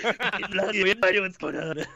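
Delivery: put-on very slow, dazed boy voice; boy at the prom, slowed and bewildered; confused boy. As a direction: drag it out, lost and confused. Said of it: "He's like".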